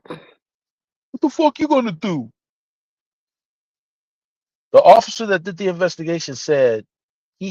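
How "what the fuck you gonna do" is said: higher, slow drawn-out threat; slow mock challenge. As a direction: lean on each word, slowly, as a taunt. Repeats the confrontation line.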